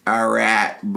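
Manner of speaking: drawled mock Western accent; badly faked cowboy Western accent; Matthew McConaughey. Co-host showing how the villain sounded, Western accent. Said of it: "It sounded a bit like this".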